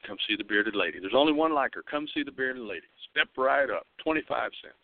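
lightly voiced carnival barker pitch. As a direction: call out like a fairground barker. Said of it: "So he's gonna tell you".

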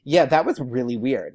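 imitating a star's candid confirmation; frank agreement. Taylor confirming the fan's awkwardness, frankly agreeing. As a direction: agree plainly, with weight on it. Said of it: "I can picture exactly how she said that".

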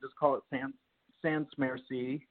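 "Sans Merci" in an American accent, hard R; Americanized "Sans Merci". Shown as a demonstration. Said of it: "with a, you know, an American accent".

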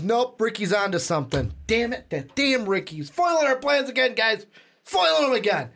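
put-on high, animated Boston accent. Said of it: "why are we giving him these accents".

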